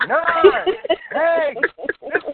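high, loud New Year's countdown; countdown shout. Retold or imitated. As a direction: cheer it like a countdown crowd. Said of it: "I felt like I was in Times Square counting down".

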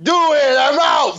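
high, put-on quick-exit voice; pop-in cameo. Co-host acts out a cameo popping in, high mock send-off. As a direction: toss it out high, like a walk-on gag. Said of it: "somebody that pops in and is like".

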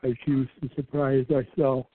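said through a yawn. Real, not acted. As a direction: talk while yawning. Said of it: "we're both yawning now".

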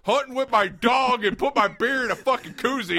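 hammed-up hillbilly bragging; lightly mock a proud country guy; a hint of a boastful redneck. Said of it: "You're supposed to be this, like, cool guy who's like".

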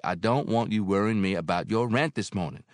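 motherly landlady; Mary, older woman. Acted. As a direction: speak as kindly Mary. Mary's voice.

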